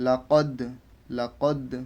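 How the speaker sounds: "লা কদ" with the final d bounced; "লা কদ" ending in a short released d; qalqalah. Shown as a demonstration. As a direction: echo the d at the end of "কদ". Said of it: "আমরা কলকলা করে বললাম".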